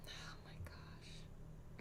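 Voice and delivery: slow, voiceless oh my gosh; whispered dismay. Real, not acted. Streamer whispering in dismay at a bad turn. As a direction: breathe it out in quiet disbelief.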